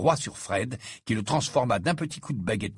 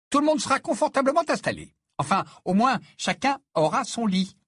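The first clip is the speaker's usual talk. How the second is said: slightly tired mother; 11 semitones higher, 3 dB louder than usual. A narrator's reading. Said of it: "avait l'air un peu fatiguée".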